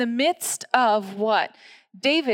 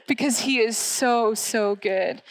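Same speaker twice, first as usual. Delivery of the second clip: on the verge of tears. Real, not acted. Pastor telling the church she's near tears, voice catching. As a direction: voice catching with real emotion. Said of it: "I'm on the verge of tears".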